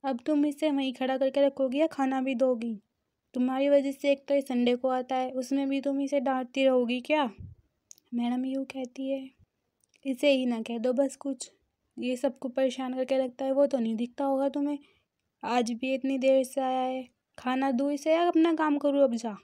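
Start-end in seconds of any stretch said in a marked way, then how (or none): 0.0-7.3 raised, reproachful voice, louder; exasperated uncle scolding at the table; mild scolding. Retold or imitated. 10.0-19.4 louder, irritated nagging; irritated mother complaining loudly; annoyed complaint. Retold or imitated. Madam complains angrily.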